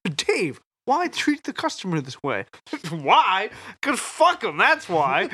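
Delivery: quoting a comedy skit. Retold or imitated. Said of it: "that skit on Chappelle's show".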